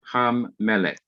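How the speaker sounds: "ham melek" with the m held double across the join; doubled consonant. Shown as a demonstration. Teacher demonstrating the first rule, "ham melek" with a doubled m. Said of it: "followed by dagesh forte".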